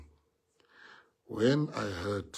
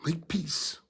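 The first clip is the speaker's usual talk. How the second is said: whispered plea; 5 semitones higher than usual. Shown as a demonstration. Speaker whispering to party members, make peace. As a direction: repeat it in a breathy whisper.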